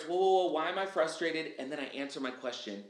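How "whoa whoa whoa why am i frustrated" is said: hitting the brakes. Shown as a demonstration. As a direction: stop yourself with a lively jolt. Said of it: "I put on the brakes".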